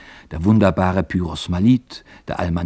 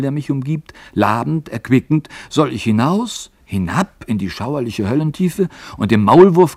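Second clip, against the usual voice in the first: indignant outcry; 5 semitones higher, 4 dB louder than usual. Acted. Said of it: "rief er".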